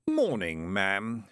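sing-song. Acted. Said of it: "he said in a sing-song voice".

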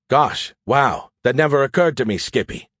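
dry mock amazement; sarcastic. Pilot to scolding AI about escaping, sarcastic. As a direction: feign wonder, then drop away on the name. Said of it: "sarcasm, I get it".

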